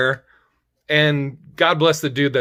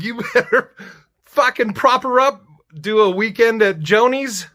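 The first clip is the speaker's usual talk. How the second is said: high, loud indignant rant with a laugh in it; hammed-up demand to the caller; mock outrage; 9 semitones higher, 4 dB louder than usual. To the caller with the news, mock outraged yelling. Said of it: "I'd be like".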